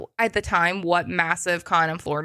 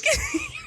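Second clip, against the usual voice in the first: high burst of laughter. Real, not acted. Delighted by Troy's reaction.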